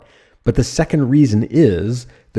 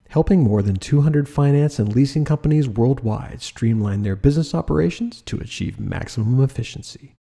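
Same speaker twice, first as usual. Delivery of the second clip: even, softer reading of the ad copy; calm and trustworthy, a touch softer; 3 dB quieter than usual. Shown as a demonstration. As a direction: read it like a steady, reassuring inner voice. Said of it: "Calm voice".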